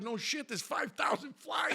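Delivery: high, loud comic retort; re-enacted exasperation. Driver answering his buddy on the phone, loud exasperation. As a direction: shout it as the obvious answer.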